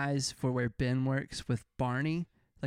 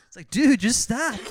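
laughing; 9 semitones higher, 9 dB louder than usual. Real, not acted. Laughing at the rap.

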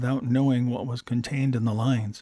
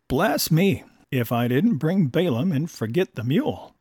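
bursting out; 3 semitones higher than usual. Acted. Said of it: "it burst from his lips".

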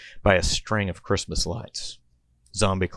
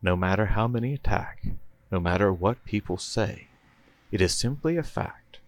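narrator voiceover. Acted. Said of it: "we hear the narrator say".

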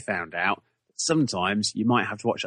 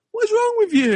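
much higher, louder scolding voice; inner voice yelling; 7 dB louder than usual. Retold or imitated. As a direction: scold yourself, high and loud. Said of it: "the back of my head went".

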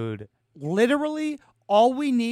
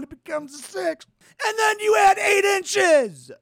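yelling in disbelief at the math; near-shouting, voice cracking with frustration; exasperated shout; 10 semitones higher, 4 dB louder than usual. Real, not acted. Exasperated math explanation, rising.

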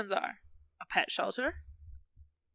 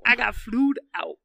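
meme voice; 6 dB louder than usual. Retold or imitated. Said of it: "Flewed out was a wild time on the internet".

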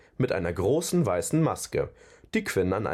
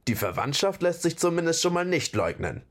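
grumbled dry remark, pitched up; grumbling; 7 semitones higher than usual. A narrator's reading. Torvald remarks on the clumsy little trolls, grumbling. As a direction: grumble it as an aside. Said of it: "brummte Torvald".

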